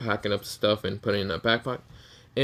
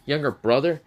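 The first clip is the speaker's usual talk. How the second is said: indignant question; 4 semitones higher, 4 dB louder than usual. Acted. Rival brother disputes claim.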